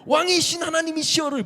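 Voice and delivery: high, loud ecstatic cry; shouting praise. Retold or imitated. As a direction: shout it to the heavens at dawn. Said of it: "계속 막 소리를 외쳤어요".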